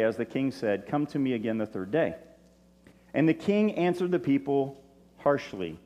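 measured reading of a Bible passage; steady scripture read. Acted. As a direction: read the text to the congregation. Reads scripture aloud.

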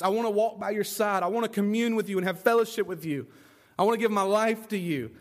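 lightly voiced healed man, pleading and devoted; a touch of an earnest grateful follower begging to stay; mild pleading voice of the freed man. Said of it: "you can just picture it".

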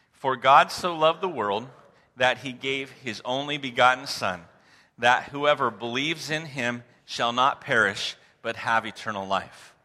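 scripture recitation. Real, not acted. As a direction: lead the room through the verse in deliberate phrases. Leads congregation reciting the verse.

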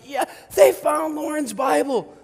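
high, loud imitation of an elated wife; screaming out. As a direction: shout the good news in excitement. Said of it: "She's screaming out".

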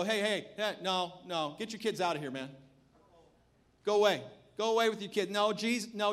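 lightly voiced dismissive disciple; mock rebuke. Disciples turning parents away from Jesus, mock rebuke. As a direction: shoo them off in a mock scolding. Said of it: "they rebuked them".

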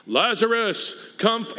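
mock-solemn summons to the dead; lightly imitated grand command; commanding deep voice. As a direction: boom it out a little. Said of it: "says it in a deep voice".

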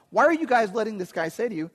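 put-on indignant kid. Teenage David demanding why the soldiers allow it, fast and high. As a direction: rattle it off like an outraged teen. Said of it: "here's this fifteen-year-old kid coming going".

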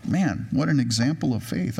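dry mock praise; sarcastic. Real, not acted. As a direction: praise it sarcastically, barely overplayed. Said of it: "I'm being sarcastic".

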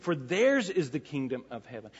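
"theirs" given clear emphasis; stress on theirs. Shown as a demonstration. Preacher rereading the beatitude to the church, stress on "theirs". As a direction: press on the word "theirs". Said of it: "there's an emphatic theirs".

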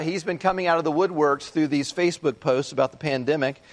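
ordinary talk, nothing marked

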